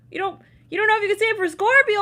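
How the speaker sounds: high, loud and fast, thrilled; excited outburst. Real, not acted. High fast thrilled outburst at Scorpio viewers. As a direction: blurt it out in a high rush.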